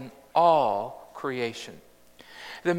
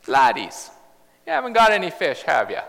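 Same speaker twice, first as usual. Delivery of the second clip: cheeky laddies; 4 dB louder, faster than usual. Acted. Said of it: "So I like that".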